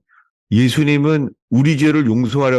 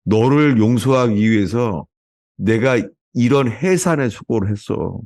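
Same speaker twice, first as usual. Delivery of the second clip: gentle voice of the Lord; slower than usual. Retold or imitated. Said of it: "주님이".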